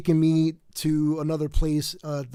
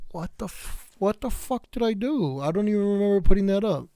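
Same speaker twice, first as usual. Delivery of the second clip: retold shock; 4 semitones higher than usual. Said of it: "I was like".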